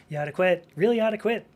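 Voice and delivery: rising, pestering mock nag voice; nagging ex-smoker. Ex-smoker nagging a smoker friend, a mock pestering whine.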